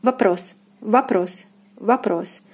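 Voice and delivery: вопрос as "va-PROS", first о as "a"; careful model вопрос for learners; stress on second syllable. Shown as a demonstration. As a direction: stress the end of вопрос, falling. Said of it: "the stress falls on the second syllable".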